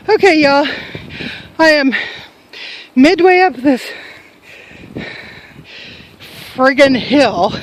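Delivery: panting from the climb; winded, catching breath between words. Real, not acted. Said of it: "breathing like an old person".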